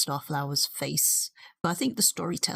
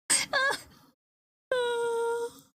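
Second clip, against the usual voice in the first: giggling through the words; laughing. Real, not acted. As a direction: say it still laughing. Still laughing at the voice.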